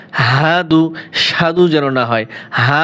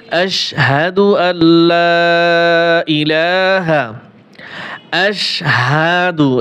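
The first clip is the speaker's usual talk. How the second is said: slow Quranic recitation; much slower than usual. Shown as a demonstration. Chanting shahada.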